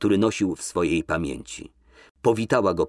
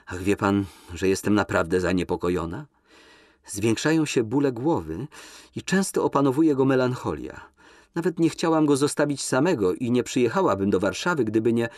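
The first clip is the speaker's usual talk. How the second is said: higher, lilting flirtatious lady; coquettish Nina; 3 semitones higher than usual. Acted. Nina teases Kolski in the limousine, high and coquettish. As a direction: lift her voice, coy and teasing.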